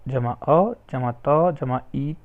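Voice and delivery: each letter sounded out slowly, one by one; syllable by syllable, unhurried; slow spelling out. Shown as a demonstration. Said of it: "वैसे ही सिब्यति का".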